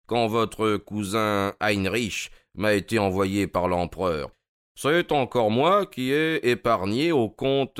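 lightly voiced detective listing his feats; a hint of proud revelation; Holmes, lightly self-important. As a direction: count off past services with relish.

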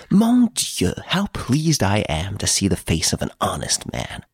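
lightly voiced prisoner, delighted greeting; effusive gentleman prisoner. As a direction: greet him with a theatrical flourish.

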